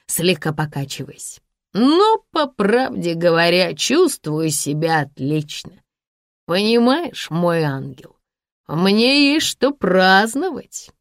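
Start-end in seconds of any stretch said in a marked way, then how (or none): 1.7-10.9 put-on swaying drunk man gloating. Drunk Sasha voice.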